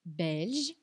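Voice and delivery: Belge said in French, /bɛlʒ/; French word. Shown as a demonstration. Teacher models Belge for students, in French. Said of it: "a ortografia não muda no feminino".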